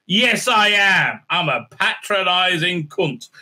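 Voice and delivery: slow, over-emphatic condescension; mock patronizing. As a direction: spell it out slowly, proudly talking down. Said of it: "I should be a total patronizing cunt and talk down to you".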